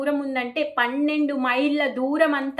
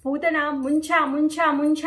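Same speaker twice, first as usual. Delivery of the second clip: mock scream; 2 semitones higher than usual. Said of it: "అనేసి అరుస్తుంది".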